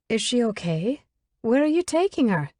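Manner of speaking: high, anxious questions; worried. Acted. Isla anxiously asks where he's taking her friend, high and worried. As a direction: fret over her friend. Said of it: "Isla asks in worriment".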